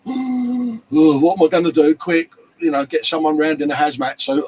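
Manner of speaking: high, whiny self-pitying moan, hammed up; mock man flu wimp. Joking about men with a cold, mock whiny moan. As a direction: play the feeble bloke with man flu. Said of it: "'Cause us blokes do wimp".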